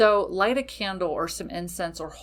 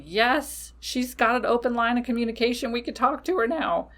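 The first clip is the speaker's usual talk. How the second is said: higher, fast, excited cheer; cheering spirit guides; 5 semitones higher than usual. Retold or imitated. Spirit guides cheering behind the witch, high and fast. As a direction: spirits celebrating an open line. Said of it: "spirit guides are going fucking nuts, cheering".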